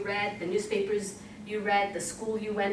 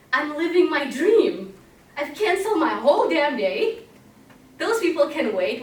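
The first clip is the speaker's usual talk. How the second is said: louder, higher burst of joy, retold; thrilled outburst; 4 semitones higher, 6 dB louder than usual. Telling the audience about her car ride, a joyful louder cry. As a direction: relive the rush of living your dream.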